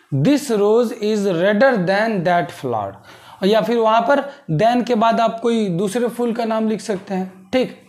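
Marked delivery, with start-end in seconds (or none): 0.1-2.9 very slow, word by word; dictating pace, each word apart; slow dictation. Shown as a demonstration. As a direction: spell it out slowly for students. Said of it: "teacher dictating slowly".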